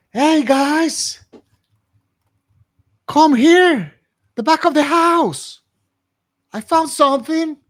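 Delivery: high, loud shout to friends; scream. Acted. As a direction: call the others over at full volume. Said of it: "I scream".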